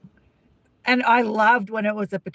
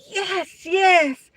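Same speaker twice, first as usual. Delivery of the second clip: higher, gloating cheer; mock triumphant; 8 semitones higher than usual. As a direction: imitate a man punching the air in victory. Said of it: "they're either really happy".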